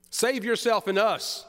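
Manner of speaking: pitched high and slow, a jeering half-shout; mock shout. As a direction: taunt him from the next cross. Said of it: "shouts the other criminal".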